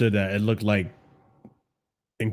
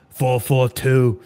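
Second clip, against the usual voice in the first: "Four four two" drawn out slowly, each word weighed; slow emphatic; 3 dB louder, much slower than usual. Shown as a demonstration. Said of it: "It's the only formation you need".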